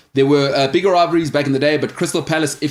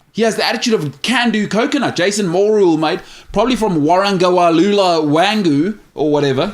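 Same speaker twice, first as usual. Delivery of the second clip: put-on New Zealand accent; 5 semitones higher than usual. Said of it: "present the right tone".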